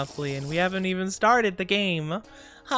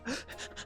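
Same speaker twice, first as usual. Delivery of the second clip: sharp gasp; 16 dB quieter than usual. Retold or imitated. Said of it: "crazy eyes".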